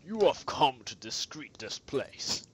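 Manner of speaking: slow, solemn legendary guardian, a hint of menace; lightly voiced Groudon. Groudon warning the player team away, slow and solemn. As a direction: warn the intruders off like an ancient titan, slow.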